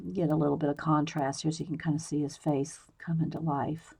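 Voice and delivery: whispered on a held breath; holding breath. Real, not acted. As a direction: hold your breath and whisper. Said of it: "Yes, I'm holding my breath".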